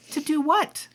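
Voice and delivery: worried mom. Acted. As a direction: demand answers from your child.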